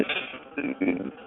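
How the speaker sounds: muffled, garbled phone line; bad connection, sound cutting out; underwater. Real, not acted. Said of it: "It sounds like you're underwater".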